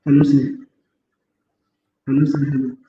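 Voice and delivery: echoey big room sound. Real, not acted. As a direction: voice echoing in a large room. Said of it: "इको बहुत आ रहा है".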